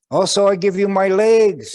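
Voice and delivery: high, loud ceremonial eagle voice; eagle's proclamation. Acted. Eagle offering its tail to the old man, high and loud. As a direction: bestow it grandly.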